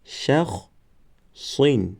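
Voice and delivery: "قمرون" drawn out syllable by syllable; slow demo word. Shown as a demonstration. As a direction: stretch "قمرون" slowly for the class. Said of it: "دیگرش". ("قمرون" آهسته و کشیده برای شاگردان)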